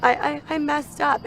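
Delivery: mock tearful stammer; retold sobbing. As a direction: imitate a tearful daughter stammering to mom. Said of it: "she's sobbing and crying".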